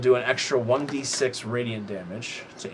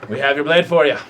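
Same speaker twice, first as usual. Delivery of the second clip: put-on Australian accent; 2 semitones higher, 5 dB louder than usual. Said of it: "You suddenly got very Australian".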